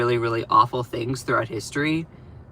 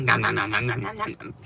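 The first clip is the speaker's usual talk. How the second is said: lightly voiced munching noises, fading softer; playful mock gobbling; 3 semitones lower, 4 dB quieter, faster than usual. Vlogger imitating herself wolfing breakfast, light munching. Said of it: "I was like".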